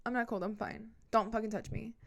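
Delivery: defensive denial. Retold or imitated. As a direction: brush him off while playing at being cold. Feigned denial of being cold.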